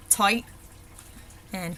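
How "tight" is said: "tight" ending in a glottal stop. Shown as a demonstration. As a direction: cut the last t of "tight" in the throat. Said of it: "we've got that glottal stop".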